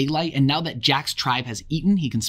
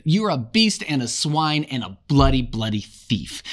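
losing it. Acted. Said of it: "Ralph just loses it".

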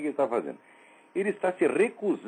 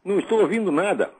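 to someone hard of hearing; 5 dB louder than usual. Real, not acted. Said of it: "Esse telefone tá horroroso".

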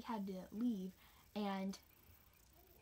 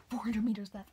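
calling out; 10 dB louder than usual. Retold or imitated. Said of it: "this person's like".

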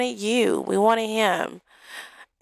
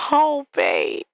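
excited Barbie; 3 semitones higher, slower than usual. Retold or imitated. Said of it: "It's like".

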